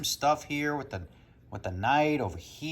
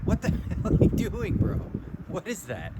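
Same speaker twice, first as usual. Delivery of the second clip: laughing disbelief; 9 semitones higher than usual. Real, not acted. Talking to dog rolling around.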